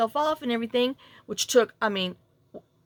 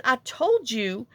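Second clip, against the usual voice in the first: mock I-told-you-so, higher and drawn out; retold testy scolding, slow and raised; imitating his attitude; 4 semitones higher, much slower than usual. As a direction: stretch it out with a bit of attitude. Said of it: "he started with his little attitude".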